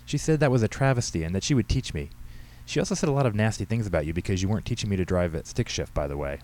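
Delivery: a hint of a girl making excuses to Dad; lightly voiced teenage daughter.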